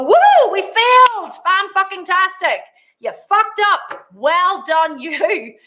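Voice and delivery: high, loud whoop of celebration; celebrating failure. Acted. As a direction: cheer it drawn out, like a big win. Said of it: "We love it. We go".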